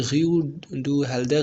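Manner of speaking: "Rue du Helder" with throaty French r sounds; French pronunciation. Shown as a demonstration. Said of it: "but ये French word है". ("Rue du Helder" French उच्चारण में, र गले से)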